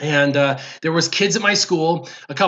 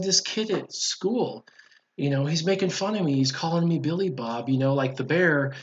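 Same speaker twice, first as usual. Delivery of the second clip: put-on subdued little-kid grumble to mom, softer; retold tearful complaint; 5 dB quieter than usual. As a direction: mildly imitate an upset child confiding. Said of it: "I started crying".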